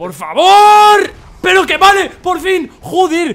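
loud, high triumphant yelling; excited shout. Real, not acted. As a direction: scream with relief after finally winning. Finally beats hard level.

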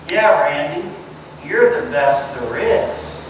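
slow, mock compliment; sarcastic praise. Someone tells Randy he's the best, not meaning it, sarcastic. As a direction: draw out the praise, meaning the opposite. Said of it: "was said sarcastically".

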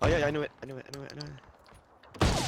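knew-it excitement, high and loud; gleeful told-you-so; excited. Real, not acted. Called it during a firefight.

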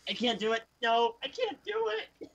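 mock giving up. Breaks down attempting a mock voice.

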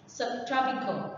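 "Subtropical" stressed on -TROP-; subTROPical, falling at the end; stress on second syllable. Shown as a demonstration. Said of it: "The stress is on the second one".

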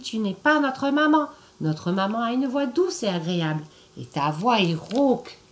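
tiny goats standing their ground; little goat kids. Acted. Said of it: "crièrent-ils".

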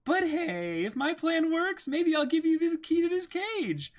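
high, teasing bargaining voice; sly thief voice. Acted. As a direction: dangle the key slyly.

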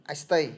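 unstressed "I" gliding straight into "stay"; "I stay" as one unit, weight on STAY; stress on STAY. Shown as a demonstration. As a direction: skim over "I" and land on "stay" without a pause. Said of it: "Ai không có trọng âm bắt vào stay".

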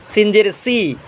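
crisp S in "সিন জের সি"; sibilant SIN. Shown as a demonstration. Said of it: "নিচের দাঁতের আগার সাথে".

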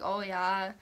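lightly slurred Minnesota accent; a hint of Minnesotan drawn-out O. Shown as a demonstration. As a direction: slur the vowels slightly, Minnesota-style. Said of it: "slur on it".

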